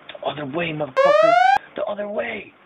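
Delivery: high, imitated exasperated yell; mock a furious friend yelling directions; mad homeboy. Mad homeboy correcting drunk friend, high retold yell. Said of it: "He's so mad 'cause he's like".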